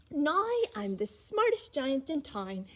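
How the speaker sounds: pleased with himself, slow and chesty; proudly. Acted. George in his new clothes, lightly proud. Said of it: "he said proudly".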